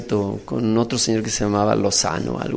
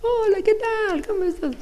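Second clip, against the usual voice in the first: ten banknote. Retold or imitated. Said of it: "vinieron los de diez". (vocecita muy aguda y lenta de billete)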